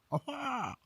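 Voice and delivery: a high, excited aha; delighted cry at the rooster's crow; triumphant aha. Real, not acted. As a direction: greet the cock's crow like a win. The cock crows.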